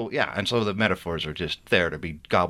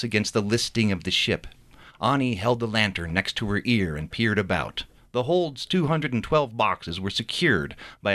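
reading his novel aloud with character voices; story narration. A narrator's reading. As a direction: tell the chapter like a storyteller. Author reads novel chapter aloud.

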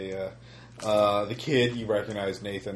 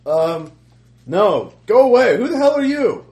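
frantic shouting hostage taker; 13 semitones higher, 14 dB louder than usual. Acted. Kidnapper shouting at guard.

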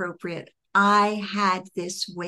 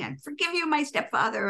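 retold shouting; 6 semitones higher than usual. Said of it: "yelling and shouting".

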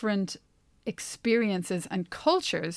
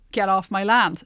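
louder, barked warning; 7 dB louder than usual. Retold or imitated. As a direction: shout it at a trespasser. Voicing an American landowner, louder take.

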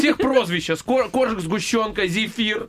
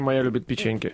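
low, broken-grammar Uzbek accent impression; central asian russian accent; 8 semitones lower, 3 dB quieter than usual. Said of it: "это какая-то узбекская передача". (среднеазиатский акцент, низко и ломано)

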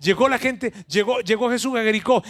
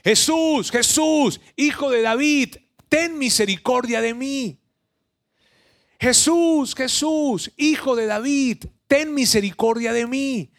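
crying out; 6 semitones higher, slower than usual. Acted. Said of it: "empezó a gritar".

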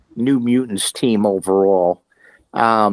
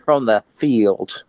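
put-on country bumpkin accent. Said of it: "He sounded like a country bumpkin".

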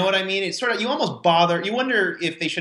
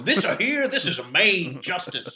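put-on New Orleans accent; 3 semitones higher than usual. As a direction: lay on a mock New Orleans courtroom accent. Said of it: "New Orleans accents".

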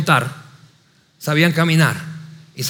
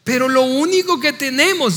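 higher-pitched acted objection; disciples' protest; 5 semitones higher than usual. Disciples making excuses to Jesus, protesting. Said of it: "dijeron ellos".

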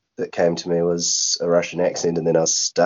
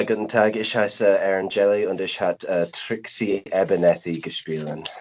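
speaking terrible German. Shown as a demonstration. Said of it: "I speak terrible German".

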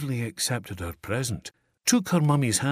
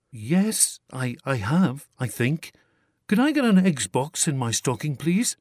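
put-on higher, unsure child's voice; a wary boy stammering his wish; hesitant small boy; 5 semitones higher, 4 dB louder than usual. A narrator's reading. Peter answering Santa.

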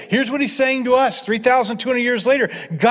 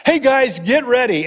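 louder, higher rallying call; 3 semitones higher, 4 dB louder than usual. Retold or imitated. Prophet rallying the exiles, calling out loudly. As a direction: rouse the crowd.

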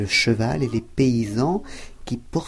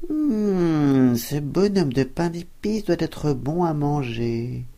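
sly fox thinking; 4 semitones higher, slower than usual. Acted. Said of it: "Tout en pensant".

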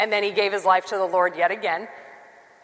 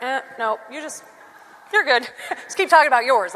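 mock dodging, laughing; 5 semitones higher, 3 dB louder than usual. Audience dodging the question.

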